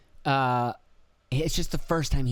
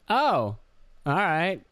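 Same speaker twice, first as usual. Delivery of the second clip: imitated taken-aback reaction, pitched up; higher, awkwardly surprised; rattled museum guy; 6 semitones higher, much slower than usual. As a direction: act mildly thrown, voice rising. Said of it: "You could tell it rattled him".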